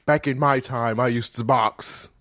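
lightly voiced camp old-timer; put-on Holiday accent. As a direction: play Holiday reminiscing. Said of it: "This accent you put on".

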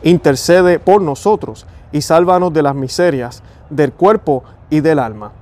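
slow, devout prayer reading. Acted. Praying to San Roque for his viewers, slow devout reading. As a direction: pray it unhurried, like at the altar. Reads prayer to Saint Roch.

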